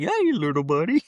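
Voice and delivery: put-on talking to a kid. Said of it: "Do you say like that to other kids".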